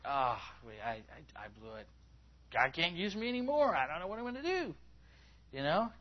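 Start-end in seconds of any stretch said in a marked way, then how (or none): 0.0-1.9 low, soft, halting admission of failure; mock dejection. Voices someone feeling like a failure. 2.5-4.7 high, wailing self-pity; mock despair. Voices the despairing failed believer.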